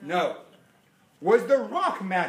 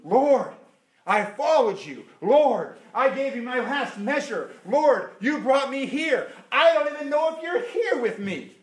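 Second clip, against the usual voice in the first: much louder, calling out Lord; loud pleading; 3 semitones higher, 5 dB louder than usual. Acted. Believer loudly pleading with the Lord. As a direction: cry out in complaint.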